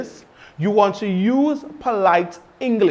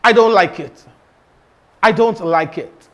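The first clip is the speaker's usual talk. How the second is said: blunt; 4 dB louder than usual. Shown as a demonstration. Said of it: "Instead of saying that".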